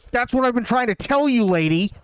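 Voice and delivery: exasperated clerk. Retold or imitated.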